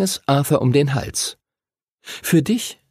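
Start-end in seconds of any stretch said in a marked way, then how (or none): 2.0-2.8 liebenswürdiges Mädchen, höhere Stimme. A narrator's reading. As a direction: mit angehobener Stimme lieb schmeicheln. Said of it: "sagte sie liebenswürdig". (liebenswürdig, leicht gespielt)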